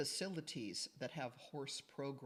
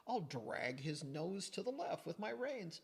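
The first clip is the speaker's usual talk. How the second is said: exaggerated effort; 3 semitones higher than usual. Retelling own heavy-handed reining.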